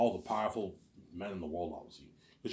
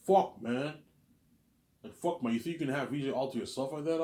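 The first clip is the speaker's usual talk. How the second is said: stepbrothers voice; 5 semitones higher than usual. Retold or imitated. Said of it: "my stepbrothers are like".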